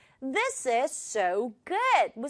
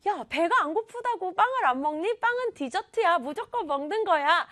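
higher-pitched playful nagging; mock scolding; 6 semitones higher than usual. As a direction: nag a friend in mock disbelief. Acts out scolding a friend in story.

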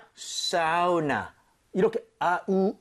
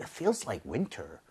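slow model read; 7 semitones lower, 6 dB quieter, much slower than usual. Shown as a demonstration. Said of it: "That's it".

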